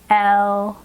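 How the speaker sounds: "Elmo" with a long "El", then a stop; stretched and split. Shown as a demonstration. Teacher stops after the L sound, stretched and split. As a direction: hold "El" and break off before "mo".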